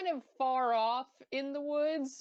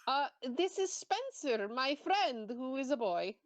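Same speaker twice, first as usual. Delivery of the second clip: teasing; 2 semitones higher than usual. Acted. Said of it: "Please don't say it like that".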